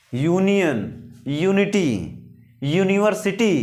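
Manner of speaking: यूनियन, यूनिटी, यूनिवर्सिटी each opening on a full "you"; drawn-out "yoo" starting यूनियन, यूनिटी, यूनिवर्सिटी; long YOU sound. Shown as a demonstration. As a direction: model यूनियन, यूनिटी, यूनिवर्सिटी as careful separate words. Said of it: "यू का pronunciation यू ही".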